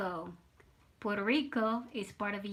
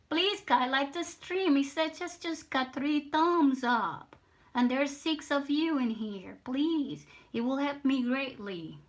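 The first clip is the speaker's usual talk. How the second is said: pleading; 4 semitones higher than usual. Real, not acted. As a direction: plead with them, pitch raised. Streamer begs viewers for likes.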